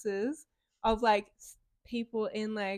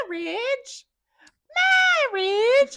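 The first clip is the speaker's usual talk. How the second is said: rising, louder exclaimed word; excited shout; 13 semitones higher, 10 dB louder, slower than usual. Retold or imitated. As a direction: call it out higher each time. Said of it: "And she's like".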